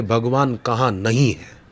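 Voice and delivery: composed, settled counter-question; Prahlad. Retold or imitated. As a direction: answer the challenge evenly, without raising the voice. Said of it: "Prahlad बोलते थे".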